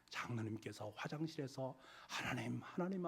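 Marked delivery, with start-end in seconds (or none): 2.1-3.0 tearful cry to God. Retold or imitated. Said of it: "하면서 울먹었던 그 울음을".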